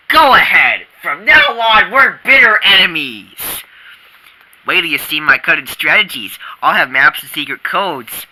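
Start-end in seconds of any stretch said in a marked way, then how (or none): 0.1-3.4 loud defiant challenge; defiant shout. Acted. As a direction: fling it back as a dare. Declaring war back.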